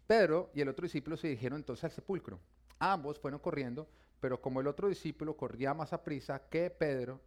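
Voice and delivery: emphatic Bible narration; reading the Gospel out to listeners; scripture reading. Acted. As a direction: pick the passage up with a strong first word. Resumes reading the Bible passage.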